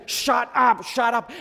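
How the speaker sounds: loud, high rebuke; crowd hushing him. Acted. Crowd silencing the blind man, loud scolding. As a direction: shout him down impatiently. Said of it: "everyone around him is saying".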